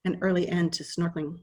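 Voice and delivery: measured poem reading with pauses between phrases; poetry reading. Acted. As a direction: read it as verse, line by line, unhurried. Reads own poem aloud.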